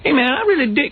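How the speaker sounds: high mock Black American accent; imitated Black American talk. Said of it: "you had to talk like this".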